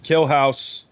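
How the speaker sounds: Killhouse in a Boston accent. Shown as a demonstration. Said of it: "Gotta say it with the Boston accent".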